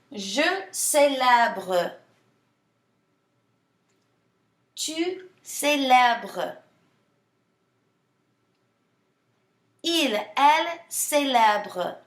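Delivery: célèbre said slowly and clearly, with a long pause after each form; teacher says each form slowly so the students can repeat it; slow model for repeating. Shown as a demonstration. Slow, clear repeat-after-me model. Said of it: "I'm gonna say it".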